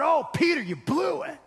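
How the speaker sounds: a hint of a disappointed scold; mock scolding Jesus. Pastor shows what Jesus did not say, mild mock scold. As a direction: lightly voice a chiding teacher. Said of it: "This is not".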